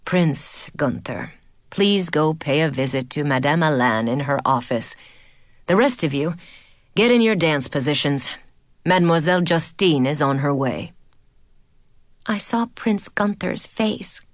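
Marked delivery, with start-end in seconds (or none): 0.0-10.9 teacher sending a pupil away, tired; tired sigh. A narrator's reading. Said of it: "said with a tired sigh".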